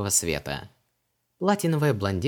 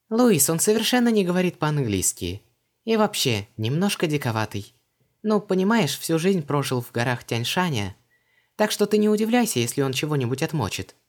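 put-on much higher, lively young woman; Vanessa's voice; 7 semitones higher, 4 dB louder than usual. A narrator's reading. Vanessa asks Creole about his customs, puzzled. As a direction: pitch her up, brisk and puzzled.

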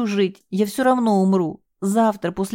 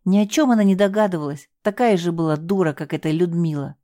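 emotional confession; 4 semitones higher than usual. Acted. Girl's emotional confession continues.

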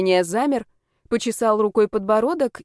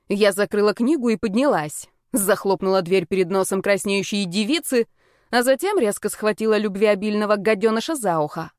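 ordinary delivery, nothing marked

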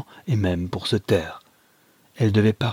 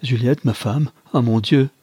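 dismayed outcry, getting louder; 3 semitones higher, 4 dB louder than usual. Acted. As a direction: let the realisation burst out on the last words. Son accepts wife's betrayal.

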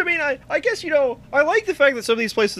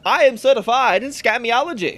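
put-on fast-talking old-timey voice; 3 semitones higher than usual. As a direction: announce it like a huckster's slogan. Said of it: "old-timey voice".

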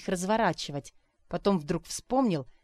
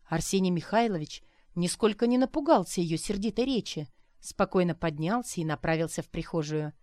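ordinary delivery, nothing marked

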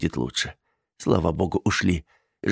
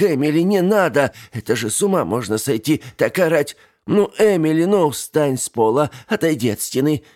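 higher, louder anxious begging; alarmed pleading; 8 semitones higher, 3 dB louder than usual. A narrator's reading. Aunt begging niece to stop screaming, alarmed. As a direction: try to calm a screaming child.

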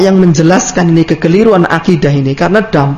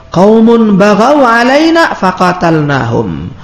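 slow recited Arabic; 3 semitones higher, slower than usual. Acted. Arabic quote read slowly.

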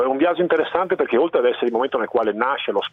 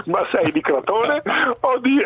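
put-on Crotone strongman with a Venetian accent; 11 semitones higher, slower than usual. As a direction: say it the Veneto way, lightly. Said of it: "e parla veneto".

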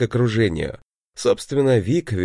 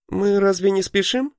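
sudden interruption; 11 semitones higher than usual. A narrator's reading. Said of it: "внезапно спросила Лита".

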